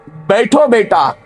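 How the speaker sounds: slow, tender father's invitation; mild sweet fatherly tone; honeyed tone. Acted. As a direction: gently coax the son to sit. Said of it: "लहजे में थोड़ा शहद मिलाकर".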